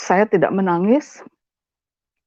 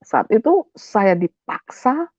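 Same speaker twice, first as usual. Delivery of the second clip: ordinary talk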